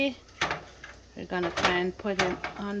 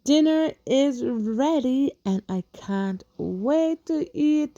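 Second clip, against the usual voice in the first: excited; 3 semitones higher, 9 dB louder, slower than usual. Real, not acted. Proudly announcing finished dinner.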